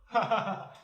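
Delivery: short high laugh. Acted. Boss laughing after his promise. (短促高声的笑)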